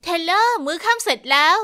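put-on girl calls her sister to dinner, eager and loud; calling out excitedly. Calling through sister's door.

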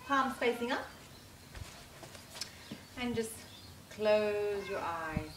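calm, measured meditation voice with long pauses; guided meditation. Acted. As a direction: lead a relaxation, leaving space after each phrase.

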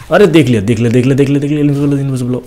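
rushed panic at being seen; panicked alarm. Real, not acted. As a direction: blurt it out as you get spotted. Spotted by enemy, panicking.

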